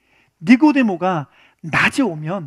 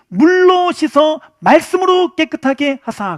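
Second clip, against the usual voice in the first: slow recitation; 5 semitones higher, 5 dB louder, slower than usual. Shown as a demonstration. Reciting Ephesians verse emphatically.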